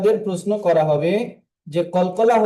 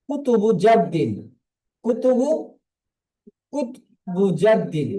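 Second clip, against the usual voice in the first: slow, for repeating. Shown as a demonstration. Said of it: "সকলে আমার সাথে সাথে বলুন".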